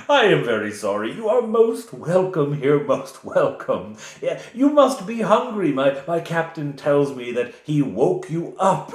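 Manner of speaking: lightly voiced fawning village official; hosting Reeve. The Reeve inviting the party to breakfast, lightly fawning.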